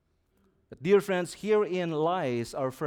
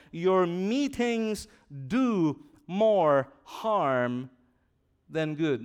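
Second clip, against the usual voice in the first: "do" leaned on hard, each word drawn out very slowly; slow, heavy stress on "do more harm"; emphasis on do more harm; slower than usual. Shown as a demonstration. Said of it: "With an emphasis on those strong words".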